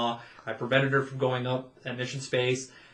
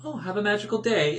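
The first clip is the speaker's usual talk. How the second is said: Oh, have a magical day said gently with a real smile; friendly and genuine; 6 semitones higher than usual. Shown as a demonstration. Cast member wishes a guest well, genuine and friendly. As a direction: wish them well, openly and sincerely. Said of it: "in a friendly, like, genuine".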